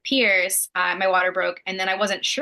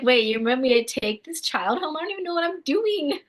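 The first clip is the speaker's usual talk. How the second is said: mock panic; 8 semitones higher than usual. Imagined new mom panicking.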